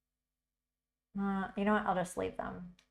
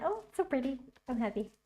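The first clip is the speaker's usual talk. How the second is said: delighted; 6 semitones higher, much faster than usual. Real, not acted. Admiring her art.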